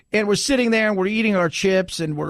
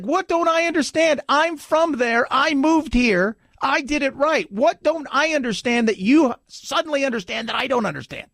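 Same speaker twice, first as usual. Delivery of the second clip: raised-pitch retold argument; imitated exasperation; 6 semitones higher than usual. Mexican immigrant challenges those who say he doesn't understand, imitated exasperation. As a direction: throw their claim back, mock-frustrated. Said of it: "they really got into it".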